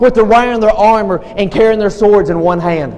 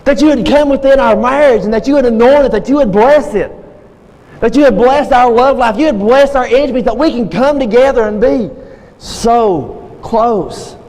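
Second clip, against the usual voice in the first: pleading prayer in a raised, rolling cadence; fervent prayer; 2 semitones higher than usual. Shown as a demonstration. Preacher modelling a prayer for his congregation, fervent prayer. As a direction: pray it earnestly, easing down on the last words. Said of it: "pray a prayer like this".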